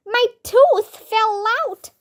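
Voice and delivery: high-pitched mock shout. A narrator's reading. Emily finds her tooth gone, high acted shout. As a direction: cry it out high, falling at the end. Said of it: "Emily shouted".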